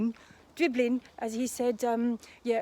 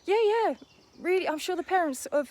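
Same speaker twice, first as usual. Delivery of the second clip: sarcastic; 7 semitones higher, 3 dB louder than usual. Real, not acted. Sarcastic reply to the fan.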